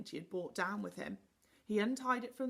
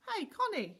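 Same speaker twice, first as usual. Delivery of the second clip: higher, louder call upward; 12 semitones higher, 5 dB louder than usual. A narrator's reading. Moonface calls up to Connie, louder and higher. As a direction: call up to her. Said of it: "he called".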